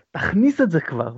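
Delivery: retold yell. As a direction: re-enact an impatient fan's shout, held back. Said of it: "ואני צורח לו".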